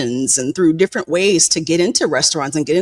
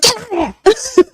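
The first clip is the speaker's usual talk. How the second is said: sudden high-pitched yell, half-joking; mock shout; 3 dB louder than usual. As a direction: bark it like shooing someone out. Maid shooed out of room.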